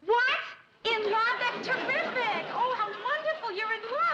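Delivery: high, loud, delighted squeal; thrilled outburst. Acted. Friend hears she's in love, shrieks with delight. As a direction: burst out, forgetting all about whispering.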